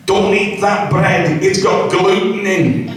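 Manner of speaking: slow, mock prissy parent voice; hammed-up nagging parent; mocking fussy parent. Mocking modern parents to the audience, slow prissy nag. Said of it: "But now it's".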